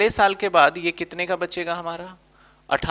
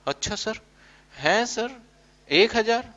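surprised; 6 semitones higher than usual. Acted. Teacher voices surprised student.

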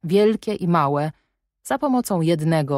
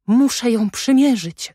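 put-on high, loud, eager child's cry; little girl who can't wait to try on a dress; excited little girl; 7 semitones higher, 6 dB louder than usual. A narrator's reading. Adèle crying out to her guardian, high and loud. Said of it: "zawołała".

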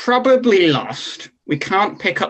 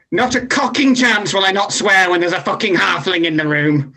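angry shout; 4 semitones higher than usual. Acted. Team managers trash-talking in character.

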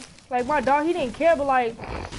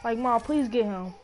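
tearful plea; 5 semitones lower, 4 dB quieter than usual. Real, not acted. Pleading to mom, crying heard.

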